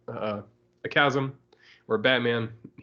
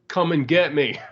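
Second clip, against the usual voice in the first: taunting yell; 4 semitones higher, 5 dB louder than usual. Retold or imitated. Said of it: "Just starts yelling at it".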